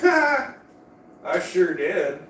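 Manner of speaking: laughing through a slow proud boast; amused laughing reply. Real, not acted. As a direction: chuckle it out, slowly.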